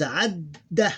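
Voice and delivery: adda as ad, held d, then da; held double d. Shown as a demonstration. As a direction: hold the d in adda before the final vowel. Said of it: "that's the way we pronounce it".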